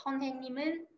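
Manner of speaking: 선생님은 read with the final consonant carried into 은; linked sounds. Shown as a demonstration. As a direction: run 님 into 은 in 선생님은, as "ni-meun". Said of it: "cách đọc nối âm".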